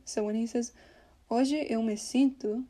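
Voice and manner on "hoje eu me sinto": "Hoje eu me sinto" with "Hoje" and "eu" distinct; words still separate. Shown as a demonstration. Teacher setting up the blend, "Hoje eu me sinto" in separate words. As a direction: keep both vowels in "Hoje eu" before blending. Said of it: "you can just make a".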